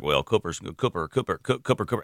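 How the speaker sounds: put-on old Republican strategist musing on Cooper in an Eastern North Carolina drawl. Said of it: "he's got an old school draw".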